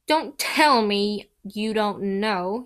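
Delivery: slow, drawn-out gloating delight. Acted. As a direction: savour every word with glee. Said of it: "he said delightedly".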